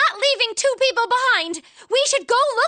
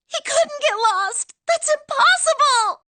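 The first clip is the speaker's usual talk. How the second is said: tearful denial; 4 semitones higher than usual. Acted. Brother missing, denial.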